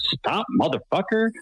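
put-on mild, very high, half-voiced yell. Recounting yelling at a vehicle inside the perimeter, retelling a yell. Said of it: "And I yell at this vehicle".

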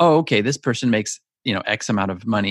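plain

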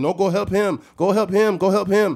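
put-on Middle Eastern accent. Retelling what a man said when refusing a handshake, in a Middle Eastern accent. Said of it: "he had a Middle Eastern accent".

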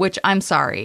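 normal talking voice

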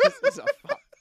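high, loud burst of laughter.

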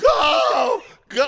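very high, very loud shouting. Retelling a frantic car escape, the speaker acts out retelling a yell at Pat. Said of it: "I'm yelling at Pat".

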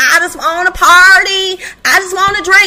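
mock annoying voice. Speaker mocks a woman she finds annoying; mocking her horrible voice. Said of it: "And her voice, oh my God, she's horrible".

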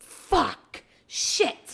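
mock swearing in a loud, yelled outburst. Speaker retells cursing in the bathroom at mom's house, retelling a yelled curse. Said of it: "And I'm yelling".

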